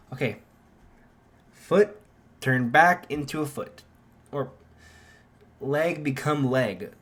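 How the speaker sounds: commanding. Acted. Izuku commands his blade back.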